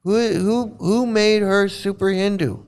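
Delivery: high, incredulous demand; rising disbelief; exasperated. Real, not acted. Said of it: "I'm being one hundred percent serious".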